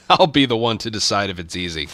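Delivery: amused, laughing it off. Pretend. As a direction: repeat it softly while chuckling. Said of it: "repeats the line laughing, softer".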